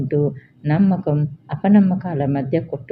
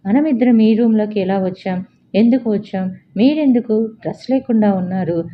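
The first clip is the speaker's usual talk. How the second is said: shocked questions; 5 semitones higher than usual. Acted. Vijaya to her shirtless boss, alarmed and shocked. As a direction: demand answers in sudden alarm.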